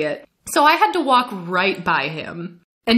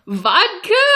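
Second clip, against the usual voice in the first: clueless guess; 11 semitones higher, 4 dB louder than usual. Retold or imitated. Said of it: "I had no idea".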